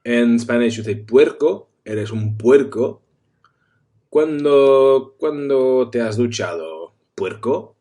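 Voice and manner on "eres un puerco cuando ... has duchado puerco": loud mock telling-off, rising on the question; mock scolding. Friend mock-scolds a smelly friend, loud and teasing. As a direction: scold him like a dirty pig. Acted insult at a dirty person.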